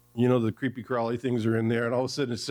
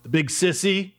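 put-on small scared boy, higher pitch; shaky child's voice; 4 semitones higher than usual. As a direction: grumble it like a frightened little boy. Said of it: "broken by a shaky voice saying".

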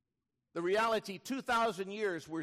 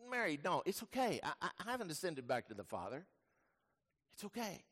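gentle reassurance; 6 dB quieter, faster than usual. Acted. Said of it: "And it's like".

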